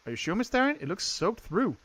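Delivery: lightly feminine servant, questioning; maid. Acted. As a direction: pitch it up as a courteous maid. Voices maid in game dialogue.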